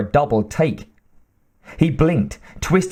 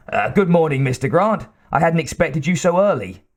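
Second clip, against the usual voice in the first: lightly voiced timid little scientist; a hint of a nervous nasal scientist; slightly raised, timid scientist greeting his boss; nasal twang; 4 semitones higher than usual. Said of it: "said the man in a nasal twang".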